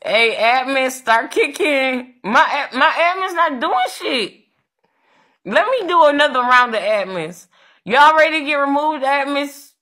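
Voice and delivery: high, loud orders breaking into laughs; yelling at admins. Real, not acted. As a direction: bark at the admins to start kicking.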